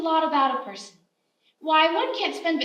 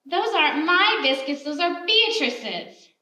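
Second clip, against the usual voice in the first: louder, sharp retort, half-acted; retold angry yell; 2 semitones higher, 5 dB louder, slower than usual. Wife yelling back at the sheriff over biscuits, mild mock anger. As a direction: snap back at him, a hint of a glare in the voice. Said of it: "She glared back and yelled".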